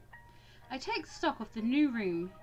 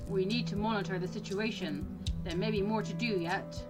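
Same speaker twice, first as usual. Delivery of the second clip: slightly lower, measured reply; lightly voiced Cyrus, composed; 5 semitones lower than usual. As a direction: answer in a low, businesslike register. Voices Cyrus answering the narrator.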